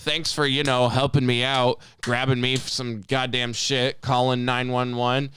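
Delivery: slow, mocking sarcastic thanks. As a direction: drip sarcasm on every word. Sarcastic imagined thanks to trucker.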